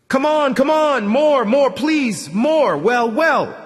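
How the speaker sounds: high, loud, urging cries of pleasure; climax moans. Acted. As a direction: urge her on, climbing in pitch and volume. Climax during sex scene.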